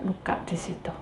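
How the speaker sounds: whispered, barely voiced. Real, not acted. Preacher whispering about wounds along the journey. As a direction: drop to a breath on the wound. Soft aside in sermon.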